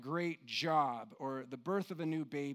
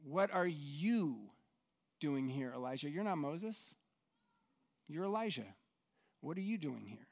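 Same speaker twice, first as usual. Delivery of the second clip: gentle probing; 3 semitones lower, 5 dB quieter than usual. Acted. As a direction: press gently, each word apart. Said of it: "But God says".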